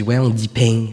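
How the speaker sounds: "pain" with a hint of southern "peng"; touch of mock Midi accent on "pain"; imitated Southern French accent. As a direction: lightly mimic a southern French "pain", ending in ng. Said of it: "Non, mais lui, il dit".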